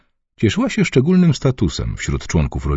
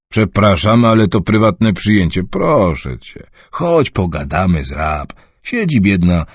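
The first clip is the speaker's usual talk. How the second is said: half-smiling. Acted. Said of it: "z półuśmiechem".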